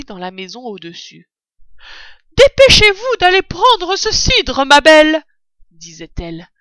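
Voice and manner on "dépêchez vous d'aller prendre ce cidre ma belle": high, shouted order from upstairs; woman calling out loudly. A narrator's reading. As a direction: holler through the house, high and bossy. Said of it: "une voix de femme qui appelait à grands cris". (femme qui crie, voix aiguë)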